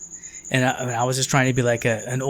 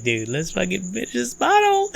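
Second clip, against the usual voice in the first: pushy cousin; 7 semitones higher than usual. Retold or imitated. Cousin pushing him to drink.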